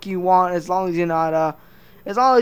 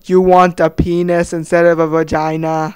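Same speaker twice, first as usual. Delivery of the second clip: slow, lower, loud dictator voice; Kim Jong-un impression; 3 semitones lower, 6 dB louder than usual. Kim Jong-un booms at a citizen, outraged. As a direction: boom it like an offended tyrant. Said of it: "Kim Jong-un would say".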